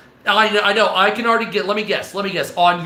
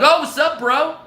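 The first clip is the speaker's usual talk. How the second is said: higher, chummy bro welcome to visiting aliens; greeting the aliens; 4 semitones higher than usual. Retold or imitated. Inviting alien visitors to the barbecue, higher chummy voice. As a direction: pitch it up like a buddy calling friends over. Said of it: "I'd be like".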